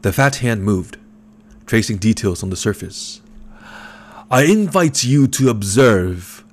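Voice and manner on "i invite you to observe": rumbling basso. A narrator's reading. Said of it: "the basso voice rumbled".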